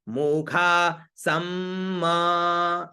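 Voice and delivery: मुखा सम with the final म hummed long; proper mantra ending; correct Vedic ending. Shown as a demonstration. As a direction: sustain the half म at the end of सम. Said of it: "ऐसे उच्चारण होगा".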